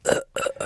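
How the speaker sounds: soft, voiceless fake coughing; feigned cough. Acting the assassin stalling the guerrillas, soft fake cough. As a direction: keep up a weak put-on cough. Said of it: "he's pretending he's got a cough".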